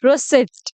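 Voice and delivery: रिसिप्ट said "ruh-SEET", p left silent; teacher's model रिसिप्ट, ending in a clean "seet"; correct silent-p "receipt". Shown as a demonstration. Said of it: "इसको बोलते हैं".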